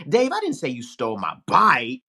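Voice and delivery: accusing tune, "I" stressed. Shown as a demonstration. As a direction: hit "I" high in "Dave, I didn't say". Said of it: "say the same sentence three ways".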